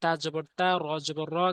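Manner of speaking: level, rhythmic letter-by-letter recitation; Quran spelling drill. Shown as a demonstration. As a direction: spell each syllable, then join them into the word.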